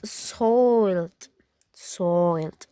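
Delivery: "soiled" for side, with an oy vowel; Irish side. Shown as a demonstration. Teacher contrasting accents, Irish side. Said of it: "In Irish is".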